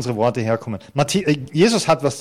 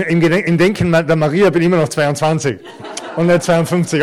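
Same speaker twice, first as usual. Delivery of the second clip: chuckling through the words, a little louder; laughing; 2 semitones higher, 4 dB louder than usual. Real, not acted. Pastor laughing as he jokes to the congregation about Maria's view of his age. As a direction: laugh while teasing about his wife.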